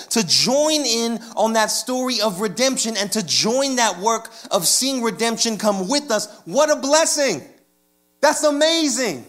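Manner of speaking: lifted, emphatic preacher's delivery; fervent preaching. Real, not acted. Preacher telling the congregation about redemption in Jesus, fervent. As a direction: preach it with growing conviction.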